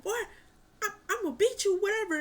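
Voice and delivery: high, loud mock dad; hammed-up whooping threat; mock father threat. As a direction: bark it like a fed-up father. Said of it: "he was like".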